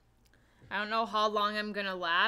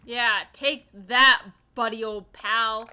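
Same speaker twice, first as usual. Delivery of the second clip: triumphant taunt; 9 dB louder, slower than usual. Real, not acted. Beating an enemy.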